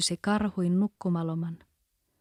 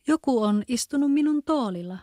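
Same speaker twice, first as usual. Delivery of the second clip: louder, higher gruff papa bear; rough voice; 5 semitones higher, 4 dB louder than usual. A narrator's reading. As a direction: boom it out as the rough father bear. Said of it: "krouvilla äänellä". (karhean karhuisän ääni, kovempi ja korkeampi)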